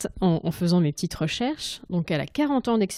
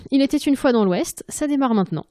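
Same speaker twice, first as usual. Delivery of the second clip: louder, higher grand title call; title announcement; 6 semitones higher, 4 dB louder than usual. Shown as a demonstration. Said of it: "bon, bah, allez". (annonce du titre, plus fort et plus aigu)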